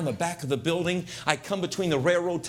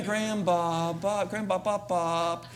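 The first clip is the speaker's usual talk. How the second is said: put-on kids calling; 3 semitones higher, slower than usual. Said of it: "I'm hearing".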